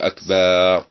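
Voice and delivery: أكبر said as akbaar with a long vowel after the ba; added alif after ba. Shown as a demonstration. Teacher demos the wrong أكبر with an extra alif. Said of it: "يضيف ألفا بعد الباء".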